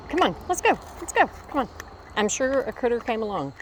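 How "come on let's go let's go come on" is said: high, loud urgent call to hurry; dream voice calling. Retold or imitated. Recalling the dream's phrase, calling out high and loud. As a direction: call out like waking someone from a dream. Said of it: "it's simply a phrase".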